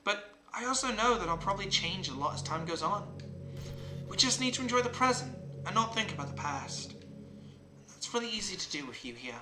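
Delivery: lightly voiced game girl. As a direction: read the character's musings gently, lightly in role. Reads game character's lines aloud.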